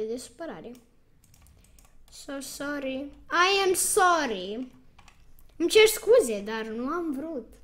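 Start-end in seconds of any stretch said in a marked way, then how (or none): 5.6-7.5 mock apology. Taunting the opponent again with a fake apology. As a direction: gloat while pretending regret.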